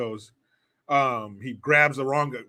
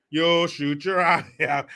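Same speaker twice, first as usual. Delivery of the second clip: slow, drawn-out quote at normal volume; movie-line impression; slower than usual. Warning a kid about his eye, slow restrained quote. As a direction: stretch out the warning, held back.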